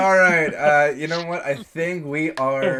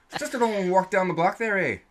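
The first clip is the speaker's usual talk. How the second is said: put-on Canadian accent; 4 semitones higher than usual. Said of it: "my straight Canadian accent".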